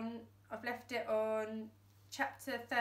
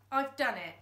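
louder, relieved; triumphant; 3 semitones higher, 6 dB louder than usual. Acted. Dad freeing the pedal, triumphant. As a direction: announce success. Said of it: "said Dad".

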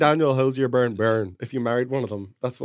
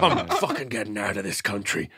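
mock-desperate, giggling the whole way; 1 laughing despair; 2 semitones higher than usual. Joking about fleeing the country, laughing as he speaks. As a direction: laugh through the rant, slowing down. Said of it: "I was just like".

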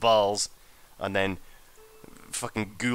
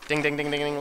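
imitated dinging; 5 semitones higher than usual. Imitates radar sounds.

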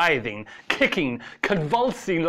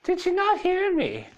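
angry shout. A narrator's reading. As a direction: shout it down at him in anger. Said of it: "she shouted, angry".

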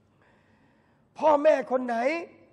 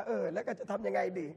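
mock anxious parent; 4 semitones lower, 5 dB quieter than usual. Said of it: "คุยกับป๋าเลยนะว่า".

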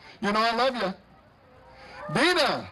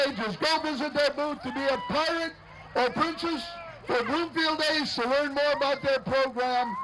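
announcer read. Acted. Reads group blurb.

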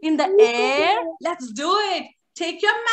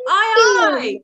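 saluting sailor; 6 dB louder than usual. Shown as a demonstration. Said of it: "as if you're saluting".

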